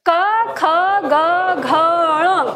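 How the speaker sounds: क ख ग घ ण said one by one, each from the throat, with a pause between; throat consonant demo. Shown as a demonstration. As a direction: sound out क ख ग घ ण clearly and separately, like a teacher. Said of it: "फिर से अभ्यास करिए". (कंठ से क ख ग घ ण धीरे-धीरे अलग-अलग बोलकर दिखाना)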